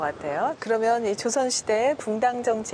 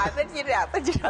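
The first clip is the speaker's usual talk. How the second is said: imitating a lisp; 3 semitones higher than usual. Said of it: "혀 짧은 소리".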